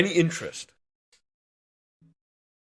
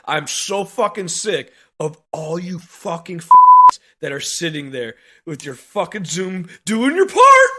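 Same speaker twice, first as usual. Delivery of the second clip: slow, louder seething tirade; angry outburst; 6 dB louder than usual. Real, not acted. Plumber raging at stay-home workers, slow and loud. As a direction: let the anger boil over.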